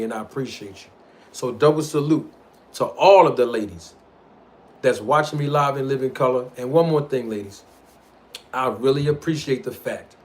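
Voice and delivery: sweet-talking R and B crooner voice. Acted. Streamer dedicating a segment to his female viewers, R and B crooner voice. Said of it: "Let me get my R and B voice on".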